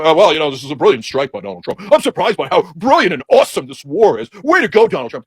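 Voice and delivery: gushing fake TV pundit; mock pundit. Mocking cable pundits praising the strike, gushing. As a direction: fawn over the president. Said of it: "they're going and go".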